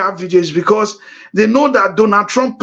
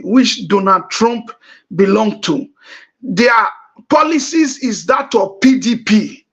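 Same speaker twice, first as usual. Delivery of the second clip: slowed down, words spaced out; slower. Shown as a demonstration. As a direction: spell it out slowly for listeners. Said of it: "let me say so that our listeners will get".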